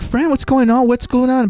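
high-pitched imitation of a fussing friend; exaggerated worried friend; concerned friend. Friend arrives, acted out.

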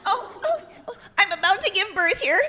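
high, urgent little bird voice; pregnant sparrow. Shown as a demonstration. Host playing a pregnant sparrow begging for help, high and urgent. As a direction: pipe up as a bird in labour. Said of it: "I once played a pregnant sparrow".

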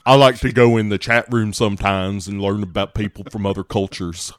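lightly hammed-up Alabama twang; mock Alabama accent. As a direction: imitate an Alabama good old boy. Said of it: "It is the accent that delivers the dialogue".

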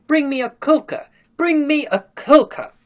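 put-on high, loud child's tantrum scream. A narrator's reading. Little Sonia demands her nurse, screaming. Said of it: "Sonia is screaming".

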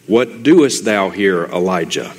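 slow and deliberate, almost hushed; slow, measured question. Acted. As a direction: ask it slowly, letting each word land. God's question read from scripture.

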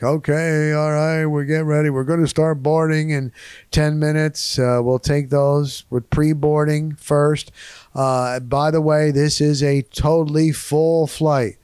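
routine boarding announcement, lightly imitated; a hint of an airport announcer; gate agent announcement. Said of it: "when they make that announcement".

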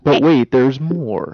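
infomercial. Pretend. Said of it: "we just made an infomercial".

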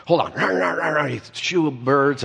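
drawn-out, half-serious shooing holler; retold yell at birds. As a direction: break off to shoo birds away. Retelling yelling at birds on phone.

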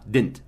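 Didn't said as one syllable, dent; Didn't squeezed into one quick beat. Shown as a demonstration. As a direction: drop the second D in Didn't. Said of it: "Esquece o segundo D".

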